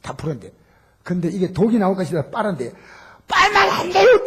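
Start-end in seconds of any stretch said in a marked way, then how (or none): 3.3-4.2 high loud alarmed shout. Retold or imitated. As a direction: cry out in alarm to stop him. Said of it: "또 소리 지르는 거예요". (깜짝 놀라 소리치는 간호사)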